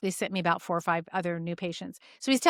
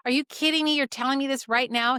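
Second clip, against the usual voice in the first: incredulous; 4 semitones higher than usual. Retold or imitated. Practitioner reacts to withheld symptom.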